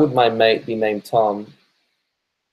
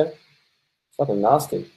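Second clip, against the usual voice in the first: disgusted; 2 semitones higher, 3 dB quieter, much slower than usual. Pretend. Slow far disgusted voice.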